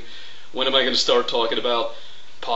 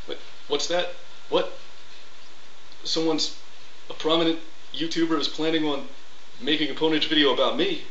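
higher voice, suddenly hushed and worried; Coughlin impression, startled; 4 semitones higher, faster than usual. Impression hears of a video about him, higher startled voice. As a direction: react to bad news in character. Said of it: "here's my impression".

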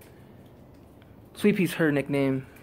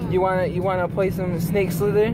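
higher, fast, playful; 4 semitones higher, 3 dB louder than usual. Real, not acted. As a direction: uncle checking what his niece wants, higher and quick. Uncle talks to his niece.

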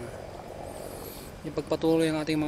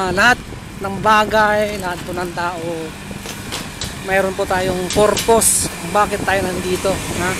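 muffled by cloth mask; speaking behind fabric mask; through a face mask; 5 dB louder than usual. Real, not acted. Seen 0: Cloth mask covers mouth and nose throughout; R frames show it lowered.

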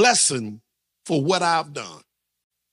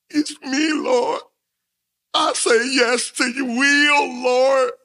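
eager believer; 4 semitones higher, slower than usual. Acted. Mock eager believer praying.

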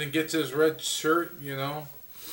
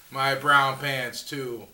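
laughing; 5 semitones lower, slower than usual. Real, not acted. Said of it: "I can't even say it again".

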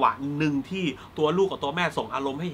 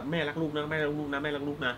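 doting mother; 8 dB quieter than usual. Retold or imitated. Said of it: "แล้วบอกลูกทุกวันว่า".

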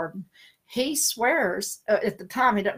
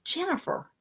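son's campy call; 10 semitones higher, 5 dB quieter than usual. Retold or imitated. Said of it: "he calls everybody when he does this".

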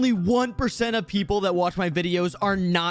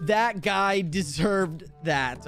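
very slow, spaced-out announcer read; deliberate game voice line; 3 semitones lower, much slower than usual. Shown as a demonstration. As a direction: deliver it word by word. Reads a sample announcer line.

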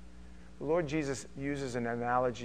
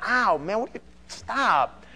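higher, louder startled protest; mock yelp; 7 semitones higher, 5 dB louder than usual. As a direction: play being bitten by a sheep. Sheep biting him.

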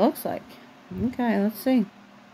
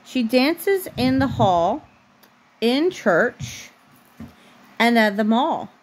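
slow, even storybook reading; reading to a child; 3 semitones higher, slower than usual. A narrator's reading. Mom reading a bedtime book to her daughter, slow storybook voice. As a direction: read the picture book aloud, unhurried, for a little one.

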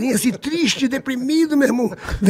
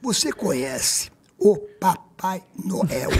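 softer, slow and calming; soothing; 3 semitones lower, 4 dB quieter, slower than usual. Retold or imitated. Serginho calming the sobbing Xuxa, softer and slow. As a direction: settle her down gently.

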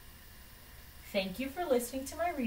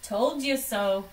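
louder smug Told you so; 5 dB louder than usual. Acted. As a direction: say it outright to the family. Doctor gloats, then repeats.

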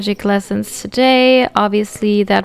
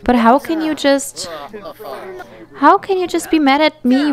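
raised, hurt accusation; hurt and angry; 4 semitones higher than usual. Acted. Voicing a betrayed friend's quarrel.

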